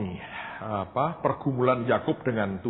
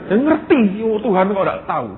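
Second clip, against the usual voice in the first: excited exclamation; 7 semitones higher, 9 dB louder than usual. Real, not acted. Preacher exclaims about God knowing.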